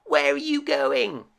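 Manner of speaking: duckling calling to swans overhead. A narrator's reading. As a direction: call up to the flying birds. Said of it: "he called out to them".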